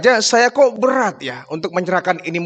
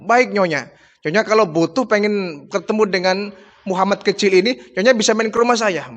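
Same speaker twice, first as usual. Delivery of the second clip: joyful thanks; 3 semitones higher than usual. Retold or imitated. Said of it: "Gembira luar biasa dia".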